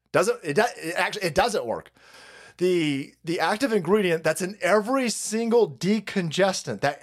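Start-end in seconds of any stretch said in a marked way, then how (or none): none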